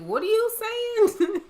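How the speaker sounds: high, slow, loud incredulous question; baffled disbelief. Retold or imitated. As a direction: draw it out high, utterly puzzled. Retold bafflement at mom's mispronunciation.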